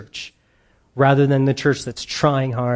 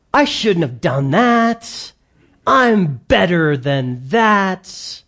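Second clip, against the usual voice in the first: drawn-out, slow protest of wounded pride; indignant self-reproach; 3 semitones higher, much slower than usual. Acted. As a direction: mimic someone slowly beating themselves up. Voicing proud self-reproach of believers.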